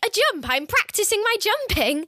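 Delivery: mock innocent claim of practising jumps; sheepish excuse. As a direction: fake innocence about the jump. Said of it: "And he's like".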